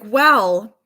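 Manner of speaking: playfully voiced little girl; little daughter's voice. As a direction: mimic a small child's careful explanation. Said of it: "this is how she talks".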